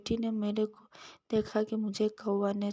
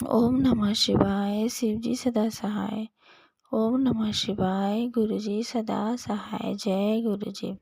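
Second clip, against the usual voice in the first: slow, measured opening mantra; louder, drawn-out start on each mantra; devotional invocation; 4 dB louder, slower than usual. Real, not acted. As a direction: intone it as a reverent invocation.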